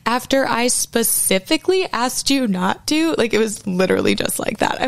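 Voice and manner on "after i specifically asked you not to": imitating Michael Scott. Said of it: "that episode of The Office where Michael Scott".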